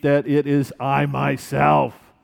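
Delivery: slow, deliberate "that it is I myself"; calm, unhurried reassurance; slow and measured. Shown as a demonstration. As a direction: lay each word down slowly. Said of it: "he adds this emphatic".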